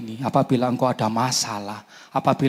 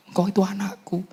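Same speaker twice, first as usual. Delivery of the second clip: whispered voice of God; 8 semitones higher than usual. Retold or imitated. God's reply voiced in prayer.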